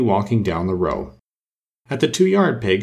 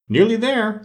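exclaimed echo; 11 semitones higher than usual. A narrator's reading. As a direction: throw it back in a high, impatient queen's voice. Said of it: "the queen repeated".

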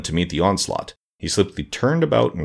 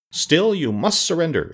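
fierce exclamation; 9 semitones higher, slower than usual. Acted. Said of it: "exclaimed the general fiercely".

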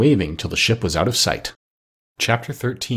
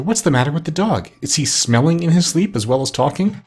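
surprised cry; 5 semitones higher than usual. Acted. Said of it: "cried the doctor".

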